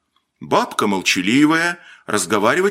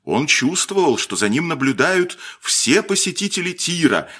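usual speaking voice

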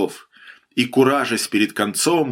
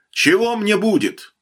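calling out a question; 9 semitones higher than usual. A narrator's reading. Cornered bandit bargains from bathhouse.

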